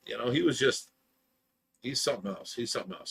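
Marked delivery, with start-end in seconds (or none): 2.5-3.1 much softer, breathy whispered repeat; whispered aside. Real, not acted. Muttering to the stream about the ex-friend, in a whisper.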